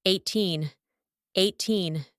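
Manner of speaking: put-on "Eighteen" stressed on teen; second syllable stressed. Shown as a demonstration. Teacher giving test answer, stress on second syllable of "Eighteen". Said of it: "Secondary syllable is stressed".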